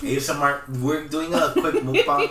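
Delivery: loud, high, laughing announcement. Real, not acted. Jokes about eating on mic.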